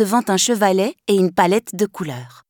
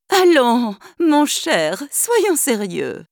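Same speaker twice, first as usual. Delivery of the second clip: laughing; 6 semitones higher, much slower than usual. Acted. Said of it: "dans un éclat de rire".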